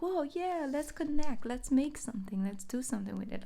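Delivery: high, eager rush of words; excited voice going high then settling; eager excitement. Pretend. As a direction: sound thrilled to connect. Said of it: "And, like".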